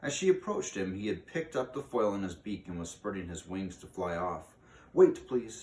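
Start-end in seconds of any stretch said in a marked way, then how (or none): 4.9-5.6 calls out loud and high to stop him; calling out. A narrator's reading. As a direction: call after him before he flies off. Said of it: "she called".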